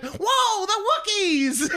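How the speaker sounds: hammed-up wonder through laughter; imitating an awestruck fan. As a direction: gasp it like a thrilled fan in the dark. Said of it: "it'd just be like".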